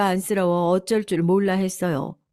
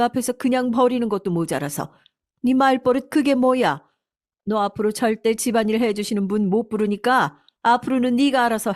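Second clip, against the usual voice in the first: lightly acted stern reprimand, pitch raised; scolding mother-in-law; 4 semitones higher than usual. Mother-in-law punishing daughter-in-law for bad manners, mildly angry high scolding. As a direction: open indignant, then lay down the law.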